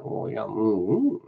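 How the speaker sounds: appreciative food moan, rising on the last mm; yummy noises. Shown as a demonstration. Cook showing viewers their habit when eating, yummy noises. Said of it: "pull faces and make noises".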